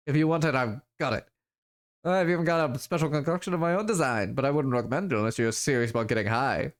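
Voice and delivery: put-on lilting dealer's patter in a vague foreign accent; Zach's muddled accent. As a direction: reel off the wares in a lightly put-on muddled accent. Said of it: "what accent I'm doing for him".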